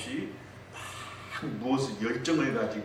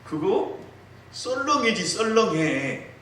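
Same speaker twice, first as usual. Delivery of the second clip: husband's answer; 11 semitones higher, 4 dB louder, slower than usual. Retold or imitated. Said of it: "그러니까 이 남편이".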